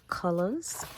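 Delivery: put-on a light, cute English-accent "Colors." with a rising end, like a little girl copying Peppa Pig; softly imitated English accent, Peppa Pig style; the speaker's English accent. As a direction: mimic a small child's English accent, lightly voiced. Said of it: "like she had that English accent".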